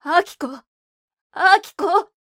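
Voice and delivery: frantic high shout; 叫び声. Acted. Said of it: "廊下に出て不与は叫んだ。". (娘を探して必死に叫ぶ)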